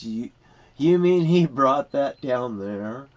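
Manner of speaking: slow, stretched-out disbelief; retold incredulous question. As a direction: imitate someone slowly taking in bad news. Retelling a man's incredulous question.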